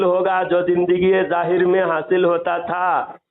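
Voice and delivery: slow, deliberate reading of a religious text; slow reading aloud. Acted. Caller reads the book's passage to the other man, slowly and deliberately. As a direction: read each phrase out carefully, slowly.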